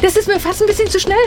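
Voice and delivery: high, fast protest through laughter; laughing protest. Pretend. Walker to coach on a too-fast treadmill, laughing protest. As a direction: squeal it laughing as the pace gets too much.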